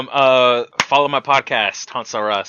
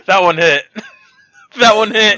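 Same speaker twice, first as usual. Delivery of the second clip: laughing approval; 9 semitones higher, 10 dB louder than usual. Real, not acted. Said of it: "Was that good?".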